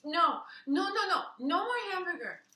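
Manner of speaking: put-on a kid begging in panic, pitched high; panicked child. Luke's hands on cheeks.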